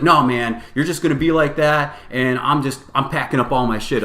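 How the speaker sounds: imitated huffy protest. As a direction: mimic a sore loser storming off. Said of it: "this guy starts getting huffy".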